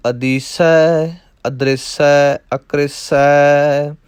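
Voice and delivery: measured, chanting recitation of verse; rhythmic Gurbani recitation; scripture recitation. Acted. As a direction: recite the verses steadily like a path. Recites Chachari chhand.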